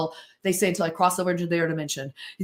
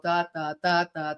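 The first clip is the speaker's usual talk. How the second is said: low, drawn-out da, da, da; slow-motion da sounds; 4 semitones lower, 4 dB quieter than usual. Shown as a demonstration. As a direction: mimic the slow pointer moving. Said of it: "don't wanna watch me go".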